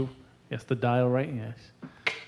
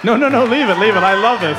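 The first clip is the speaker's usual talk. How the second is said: excited; 2 semitones higher, 6 dB louder, faster than usual. Real, not acted. Begs to keep station on.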